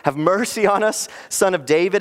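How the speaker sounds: insistent mock shout for mercy. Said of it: "they just shouted even louder".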